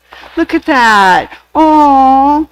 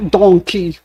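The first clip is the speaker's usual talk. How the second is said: ogre voice; 5 semitones lower than usual. Retold or imitated. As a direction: do a lumbering ogre voice. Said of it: "uh, ogre voice".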